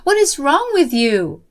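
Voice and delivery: very high, loud furious yell; screaming in anger. Acted. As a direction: scream at her in a rage. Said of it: "practically screamed at me in anger".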